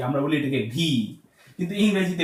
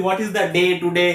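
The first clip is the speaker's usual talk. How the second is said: slow Bengali-accented English question; slower than usual. Shown as a demonstration. Teacher showing how we speak it like Bengali, Bengali accent. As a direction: read it evenly with Bengali vowels and hard t. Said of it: "এরকম করে তো বাংলা বলি".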